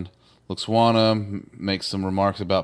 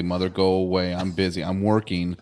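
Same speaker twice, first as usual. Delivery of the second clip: mock annoyed brush-off; 3 semitones lower than usual. Deanna telepathically answering her mother.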